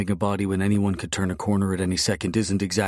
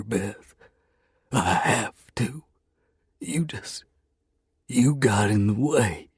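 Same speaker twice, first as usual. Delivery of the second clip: tearful, breaking, a touch higher; choked up; 4 semitones higher, slower than usual. Acted. Hero to Bethany, choked up and tearful. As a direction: fight back tears. Choked up while killing her.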